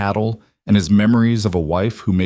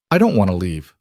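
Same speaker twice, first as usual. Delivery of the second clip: protesting. Acted. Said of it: "Luke protested".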